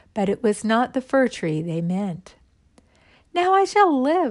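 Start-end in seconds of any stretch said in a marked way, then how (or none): 3.4-4.3 joyful, very high-pitched outcry. The fir tree speaks, crying out joyfully. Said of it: "cried the tree joyfully".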